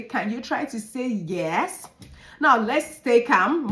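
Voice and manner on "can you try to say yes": gentle prompting. Shown as a demonstration. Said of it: "Then you can try to say".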